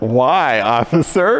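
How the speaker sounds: sarcastic, holding in laughter. Retelling a reply to a cop: imitating holding back laughter. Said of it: "on the verge of laughing".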